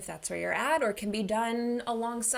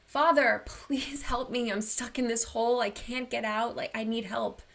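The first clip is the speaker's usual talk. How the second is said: retold plea; 3 semitones higher than usual. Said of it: "the person yells up".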